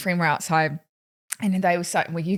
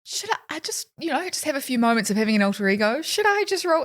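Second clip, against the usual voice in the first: mock tempted inner voice; 6 semitones higher than usual. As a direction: muse up high like tempting yourself.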